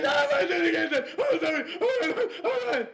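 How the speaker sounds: very high, thin mock-panicked begging; dad mimicking his frightened daughter; imitated pleading daughter. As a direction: squeal out the apologies. She's going.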